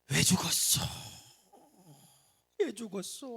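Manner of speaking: high mock wail at the grave; hammed-up graveside wail. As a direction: ham up a grieving man's cry. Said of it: "하면서 막 우는 거예요".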